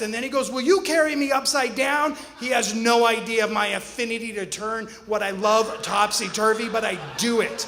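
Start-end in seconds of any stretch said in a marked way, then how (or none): 0.5-2.1 put-on higher and louder, eager child begging; a small boy pleading to be flipped, bright and eager; excited kid voice. Dad voicing his son asking to be carried upside down, excited.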